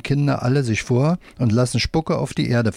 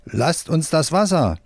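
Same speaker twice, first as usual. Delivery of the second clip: shouting; 6 semitones higher than usual. A narrator's reading. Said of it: "ein Arbeiter schreit".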